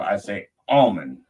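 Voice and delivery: almond with the L sounded; L pronounced. Shown as a demonstration. Showing how he says it at the store, almond with L sounded. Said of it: "I would pronounce that L".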